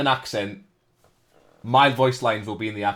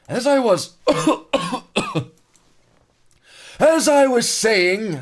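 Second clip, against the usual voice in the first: much higher, louder, slow mock French narrator; 13 semitones higher, 9 dB louder than usual. Streamer restarting the narration in a mock French narrator voice. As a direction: ham up the SpongeBob French narrator. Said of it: "Fucking French narrator from SpongeBob".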